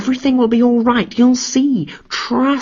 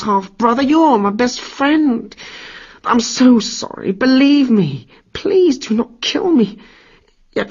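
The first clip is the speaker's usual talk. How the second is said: higher, whining plea; wailing and begging; 10 semitones higher than usual. Acted. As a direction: grovel through tears for your life. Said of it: "Sobbing like a baby, Loki wailed".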